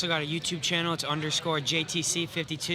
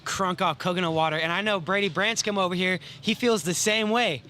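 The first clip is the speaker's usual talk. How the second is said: hyped-up radio host voice; morning radio dj; 2 semitones higher, 4 dB louder than usual. Acted. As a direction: pump it like a morning show host. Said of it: "Why are you talking like a radio D J?".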